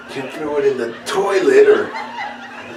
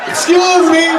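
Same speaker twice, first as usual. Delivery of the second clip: calling out; 5 dB louder than usual. Retold or imitated. Guy calling again.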